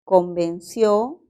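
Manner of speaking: Convenció slowed, leaning on its final syllable; stressed syllable. Shown as a demonstration. Teacher to students, slowly showing Convenció is aguda. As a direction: stretch out Convenció, weight on the last syllable. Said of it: "es aguda".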